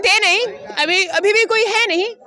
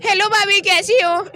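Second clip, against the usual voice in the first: man doing a woman's voice. Acted. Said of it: "लड़की की आवाज़ बोल करके".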